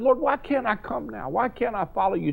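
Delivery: a lightly voiced, anxious Peter; Peter pleading. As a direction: plead like a disciple who wants to follow.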